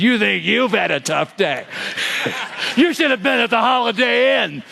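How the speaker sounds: an ironic "sensitive" husband, laughing through it; one-up her tough day with a laughing, mock-caring tone. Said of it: "in his most sensitive voice".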